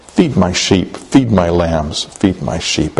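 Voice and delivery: low, measured charge; gentle. Retold or imitated. Jesus gently commissioning Peter three times.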